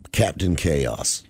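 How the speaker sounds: slow, deep dramatic intro; dramatic announcement. Acted. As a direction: announce the name like a legend.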